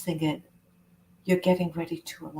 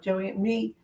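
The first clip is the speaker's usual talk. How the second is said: helpless surrender; 9 semitones higher than usual. Shown as a demonstration. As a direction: voice climbing much higher to a pleading peak. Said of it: "So I'm gonna say to myself".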